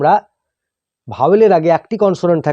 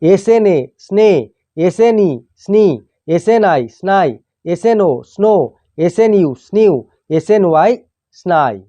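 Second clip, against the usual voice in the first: teacher's measured spelling recitation, pausing between items; pronunciation drill; 2 semitones higher than usual. Shown as a demonstration. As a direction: spell out the letters, then sound the blend. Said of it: "উচ্চারণ এইভাবে হয়". (বানান করে উচ্চারণ শেখানো)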